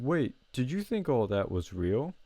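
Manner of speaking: lightly voiced gloating villain; imitating a rival's smug taunt, mildly villainous; Disney villain voice. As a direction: play the smug cartoon baddie. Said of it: "like a Disney villain".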